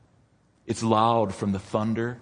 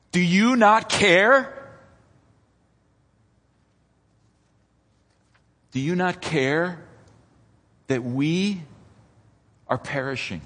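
accusing yell; 6 semitones higher, 5 dB louder than usual. Retold or imitated. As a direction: hurl the question at God, then let it sink. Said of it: "they yell loudly".

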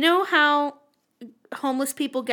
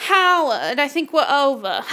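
bored diva; 3 semitones higher, 4 dB louder than usual. Pretend. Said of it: "sucking back on my cigarette".

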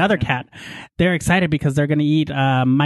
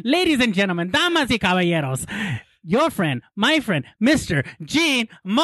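lucha libre announcer; 3 semitones higher than usual. Acted. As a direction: announce him like a wrestler entering. Hosts formally introducing guest.

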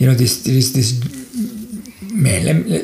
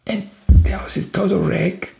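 higher-pitched, exasperated complaint, not shouted; furious husband; 6 semitones higher than usual. Retold or imitated. Fed-up husband grumbling about the messy house, exasperated. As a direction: act out a fed-up husband's grievance. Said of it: "So he was so furious".

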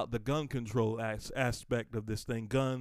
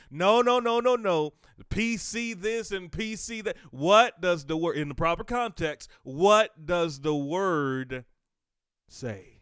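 loud high preaching cry; shouted preaching; 6 semitones higher, 9 dB louder, slower than usual. Acted. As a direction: rail against it from the pulpit. Preaching at full force.

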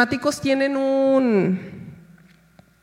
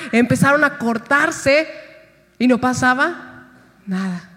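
ordinary talk

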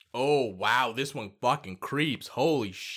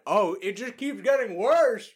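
drooling; 3 semitones higher, 3 dB louder than usual. Real, not acted. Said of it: "there's so much spit in my mouth".

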